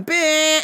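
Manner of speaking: quick high honk noise; imitated car horn. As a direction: blare a short horn note mid-story.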